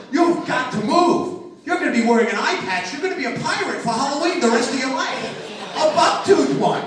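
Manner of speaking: loud, urgent voice from above; booming God voice. Retold or imitated. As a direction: command like God himself. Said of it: "God was like".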